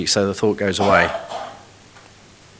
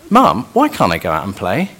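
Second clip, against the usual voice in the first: put-on curious child's question; 3 semitones lower than usual. Shown as a demonstration. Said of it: "Same words".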